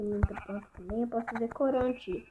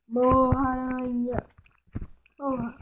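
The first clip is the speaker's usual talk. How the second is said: louder battle cry; yelled attack; 5 dB louder, slower than usual. Real, not acted. Striking the spider, a loud yell. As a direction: hit it as you yell.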